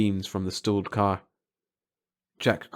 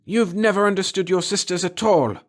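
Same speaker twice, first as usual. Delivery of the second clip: wild laughing scorn; 10 semitones higher, 5 dB louder than usual. A narrator's reading. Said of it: "She began to laugh wildly".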